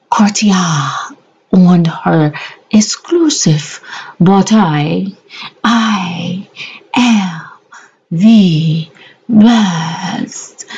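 hushed, slow mock-calm voice; mock serene whisper. To viewers, pretending the video is calm: hushed mock serenity. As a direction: breathe the words like a soothing narrator. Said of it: "running a very calm, serene video".

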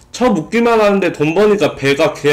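chewing while talking; speaking through a bite; mouth full. Real, not acted. Seen 0: hand holds bread at mouth, chewing while speaking.

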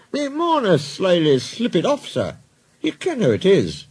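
put-on Scottish accent. Twins excusing lost numbers, Scottish accent. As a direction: play a sly Scottish engine. Scottish twin engines answer the boss.

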